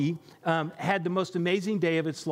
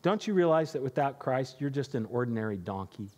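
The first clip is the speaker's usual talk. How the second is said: lower, gentle motherly scolding; a mother donkey consoling her foal; 3 semitones lower than usual. Acted. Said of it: "and she says".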